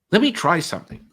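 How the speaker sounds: excited. Retold or imitated. Eager offer on the phone.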